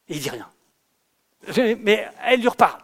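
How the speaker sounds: normal talking voice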